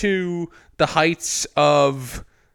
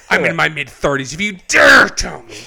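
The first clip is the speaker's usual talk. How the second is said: loud mock threat, building; mock outrage; 8 dB louder than usual. Warning friends against kids' movie spoilers, mock outrage. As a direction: blow up in pretend fury at spoilers.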